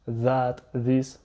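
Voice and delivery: "That, this" with a voiced th, tongue between the teeth; English "That" and "this" with a clear voiced th. Shown as a demonstration. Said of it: "l'équivalent du T H anglais".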